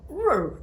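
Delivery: high, playful little roar; puppy having the last word, a high playful mock roar; mock dog roar. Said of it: "he usually does a final, like".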